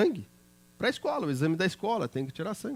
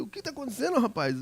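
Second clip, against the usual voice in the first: alarmed question; 8 semitones higher, 4 dB quieter than usual. Retold or imitated. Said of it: "E eu falei".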